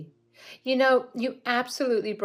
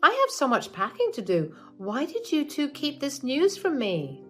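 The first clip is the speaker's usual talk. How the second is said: much higher, louder giddy delight; excited mother-in-law; 9 semitones higher, 6 dB louder than usual. Acted. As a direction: gush over the free house. Mother hears about the house.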